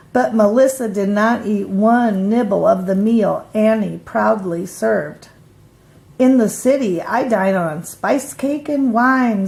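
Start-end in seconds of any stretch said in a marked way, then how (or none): 6.2-9.5 grandly. Acted. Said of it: "said the City Mouse rather grandly".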